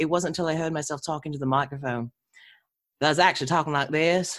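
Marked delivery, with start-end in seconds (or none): 3.0-4.4 put-on slightly quicker Southern English accent. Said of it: "it's not Cockney, but it's, it's Southern".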